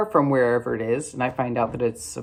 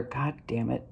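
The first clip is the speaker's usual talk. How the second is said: soft grumble under the breath; muttered curse; 9 dB quieter than usual. Retold or imitated. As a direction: let it slip out under your breath. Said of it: "I hear him mutter".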